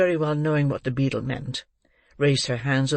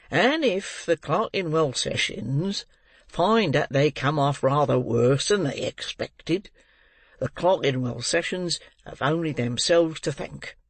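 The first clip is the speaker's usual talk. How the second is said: lightly voiced menacing parish beadle. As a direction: threaten grandly with self-importance. Bumble threatens the court.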